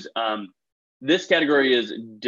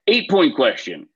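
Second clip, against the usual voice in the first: louder, higher announcement; announcing; 4 semitones higher, 4 dB louder than usual. Shown as a demonstration. Quiz host calling out the next question to the teams, louder. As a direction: call it out to the room. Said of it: "host announces next question".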